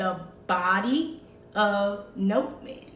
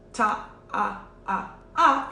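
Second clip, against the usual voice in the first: evenly spaced "ta, ah, ah, ah"; four-beat counting. Shown as a demonstration. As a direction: count out four steady beats. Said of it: "So instead of four".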